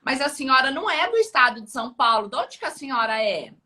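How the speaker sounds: acting out a puzzled clinician; surprised question. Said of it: "eu falei assim".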